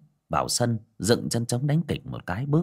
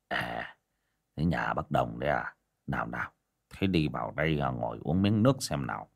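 tired greeting; 9 semitones lower, 7 dB quieter than usual. Acted. Tired old man greets neighbour.

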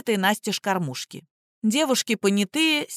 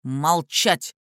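barked order; 4 semitones lower than usual. A narrator's reading. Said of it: "снова рявкнул Журавский".

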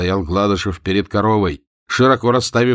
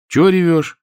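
рассудительно; 9 semitones higher, 5 dB louder than usual. A narrator's reading. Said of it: "рассудительно сказал он".

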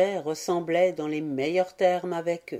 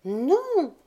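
higher, drawn-out grave refusal; a child's solemn no; 10 semitones higher, 3 dB louder than usual. A narrator's reading. Violette correcting her little brother, gravely. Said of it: "reprit Violette gravement".

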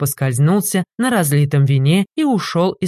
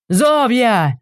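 higher shouted call; shouted name; 7 semitones higher than usual. A narrator's reading. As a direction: yell for your wife. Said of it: "заорал трактирщик". (трактирщик громко зовёт жену)

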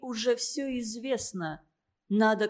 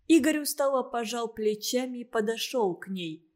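ordinary delivery, nothing marked

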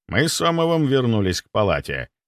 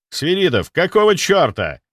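loud, sharp rebuke; snapped; 7 semitones higher, 5 dB louder than usual. A narrator's reading. Doctor scolding his guard, loud and sharp. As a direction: bark at him in annoyance. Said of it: "рявкнул я".

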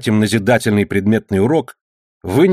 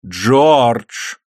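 reproachful; 3 dB louder than usual. A narrator's reading. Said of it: "прозвучал с упрёком печальный голос".

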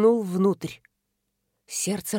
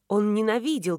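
plain reading voice

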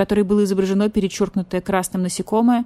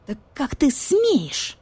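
slow, much higher outraged voice; 8 semitones higher, slower than usual. Acted. Badger-cat outraged at the cat, slow high indignation. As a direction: draw it out in shocked offense.

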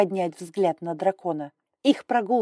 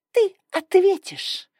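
hissed; 13 semitones higher, 6 dB louder, slower than usual. A narrator's reading. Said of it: "прошипела Далия".

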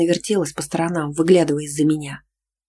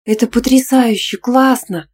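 high, loud cry of delight; восторженный крик; delighted shout; 7 semitones higher, 5 dB louder, slower than usual. Acted. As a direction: shout it out thrilled by the lake. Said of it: "кричала она от восторга".

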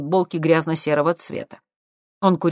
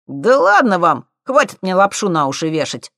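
dismissive; 4 semitones higher, 7 dB louder than usual. A narrator's reading. Thief brushing off the professor, loud and cocky. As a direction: wave them off lazily. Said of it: "махнул загорелой рукой парень".

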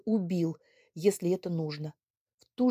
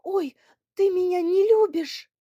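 high, loud wounded cry; 11 semitones higher, 6 dB louder than usual. Acted. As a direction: cry it out as a hurt girl. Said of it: "что она кричит". (обиженный громкий вскрик)

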